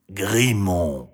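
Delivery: drawn-out dragon voice; name yourself with weight; Grimont. A narrator's reading. Dragon tells Marie his name, sonorous and measured.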